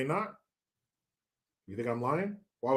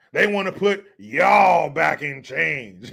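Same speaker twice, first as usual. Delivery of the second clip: Grandpa in Chief; slower than usual. Retold or imitated. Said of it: "Grandpa in Chief".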